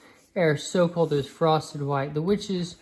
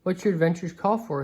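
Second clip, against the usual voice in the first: mysterious; 3 semitones higher than usual. Acted. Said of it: "he said mysteriously".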